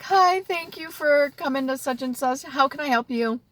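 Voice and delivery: lightly voiced cheerful clerk; customer service voice. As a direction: put on a bright front while holding back tears. Teary, greeting a customer.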